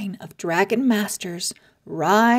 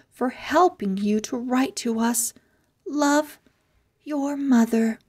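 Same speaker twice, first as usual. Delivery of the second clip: higher, tender letter voice; lightly voiced mother; 5 semitones higher than usual. Drake's mother writing to her son, tender and higher. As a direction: read it like a loving mum.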